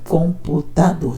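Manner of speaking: "Computador" spoken very slowly, syllable by syllable. Shown as a demonstration. Teacher counting syllables on a child's page, sounding out slowly. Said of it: "Tem quatro sílabas".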